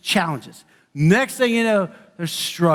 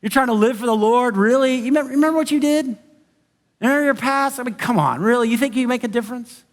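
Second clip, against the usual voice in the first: mocking doubter; 3 semitones higher than usual. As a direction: needle them about their past. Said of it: "they question your character".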